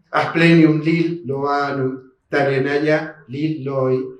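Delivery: Berberis Lil Loana spelled out slowly, each syllable clear; slow careful naming. Shown as a demonstration. Teacher reading the species name slowly to students, careful pronunciation. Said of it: "La doctora Catani hizo un trabajo".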